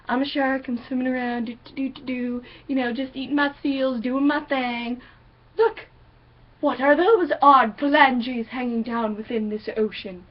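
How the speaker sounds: a chill shark murmuring to itself; calm, real shark. Retold or imitated. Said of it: "This is how a shark do".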